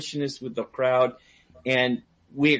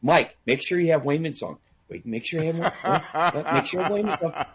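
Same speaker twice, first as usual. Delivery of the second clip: imitated insistent reminders, slightly higher; mock nagging; 4 semitones higher than usual. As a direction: pester him over and over, half-laughing. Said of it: "she bugged me for weeks".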